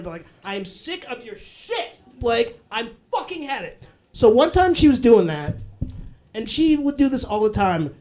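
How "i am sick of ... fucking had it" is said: emphatic, deliberately enunciated swearing; formal cursing. Shown as a demonstration. Mom cursing like it's a formal dinner, imitated emphatic formality. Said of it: "like, a formal dinner".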